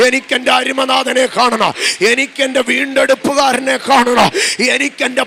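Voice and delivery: loud, yearning cry, slowing on the English lines; impassioned plea. Acted. Mary pleading to see her Lord, preached loudly.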